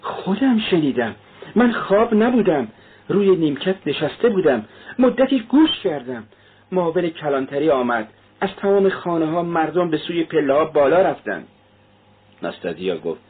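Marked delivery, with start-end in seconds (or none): 0.0-11.5 much higher, urgent and frightened. A narrator's reading. Feverish man insisting to the maid he heard it, frightened. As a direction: insist through panic. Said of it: "با صدای ترسناکی گفت".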